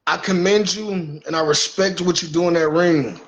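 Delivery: building from calm to taunting; cocky wrestler calling out a rival; wrestling promo. Pretend. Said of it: "I gotta cut a promo on Briggs".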